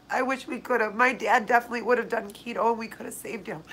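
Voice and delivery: real grief, holding back tears; tearful, halting over the loss of a father. Real, not acted. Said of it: "I'm crying so much".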